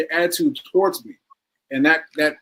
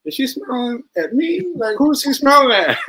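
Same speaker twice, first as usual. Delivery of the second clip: much higher, wondering who she means; puzzled surprise; 9 semitones higher than usual. Retold or imitated. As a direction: ask it like you can't believe it's for you. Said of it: "I was like".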